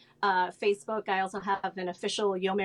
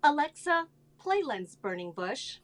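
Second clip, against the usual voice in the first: voice command; 5 semitones higher than usual. Shown as a demonstration. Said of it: "I want you to ask Alexa".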